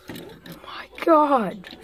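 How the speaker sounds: soft whispered awe. Acted. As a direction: whisper it in amazement. Exploring a strange place.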